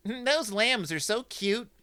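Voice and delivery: high-pitched little-sister gushing; cooing Sister. Acted. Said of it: "as Sister says".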